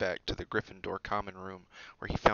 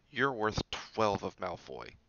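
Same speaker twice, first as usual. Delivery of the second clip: reassuring; slower than usual. Acted. Harry comforting Neville.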